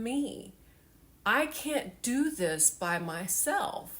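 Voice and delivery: reliving a tearful confession to her son; tearful plea. Retold or imitated. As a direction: plead slowly as tears start. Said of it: "And I start to tear up".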